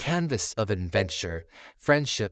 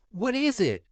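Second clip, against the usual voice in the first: eager question; 12 semitones higher than usual. Acted. Jessie asks eagerly.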